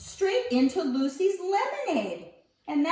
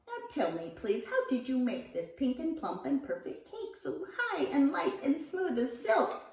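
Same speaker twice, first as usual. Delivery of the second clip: high, thrilled mother's exclamations; a lightly voiced overjoyed mother; delighted cry; 5 semitones higher than usual. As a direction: gush with surprised joy, voice lifted. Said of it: "she cried".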